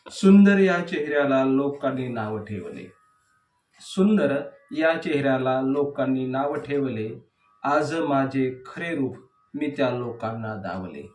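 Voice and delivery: measured verse reading with falling line endings; declaimed poetry, leaning on each opening word; poem recitation. Acted. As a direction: recite the verse line by line, pausing between phrases.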